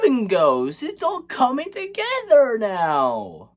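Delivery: drawn-out, sarcastic wonder; hammed-up astonishment; mock amazement. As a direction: pretend to be amazed by a big reveal. Feigned amazement at plot twist.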